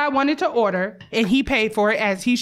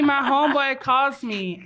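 ordinary talk, nothing marked

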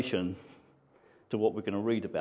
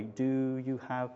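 broken, halting; slower than usual. Acted. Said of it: "spoke in a broken and halting way".

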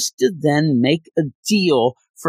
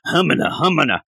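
Thing babbling; faster than usual. Retold or imitated. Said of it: "I do like Thing going".

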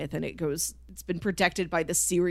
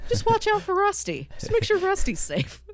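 mock solemn order; 12 semitones higher than usual. Mock mission voice for ORB.

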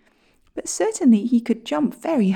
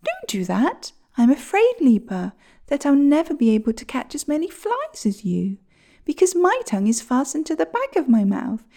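sparrow voice; 5 semitones higher than usual. Acted.

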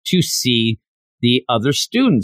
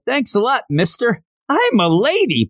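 put-on much higher, airy scatterbrained girl voice; flighty girl; 12 semitones higher than usual. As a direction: play her as a ditzy, bubbly girl. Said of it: "to show again that she's flighty".

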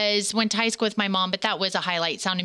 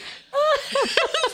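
squealing laugh, much higher. Real, not acted. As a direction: burst out laughing high. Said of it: "listen to you laugh at me".

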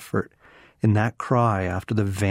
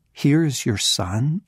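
higher, rising in disbelief on here; incredulous rise; 4 semitones higher than usual. Shown as a demonstration. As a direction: say it as if you can't believe it. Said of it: "you have got to be kidding me".

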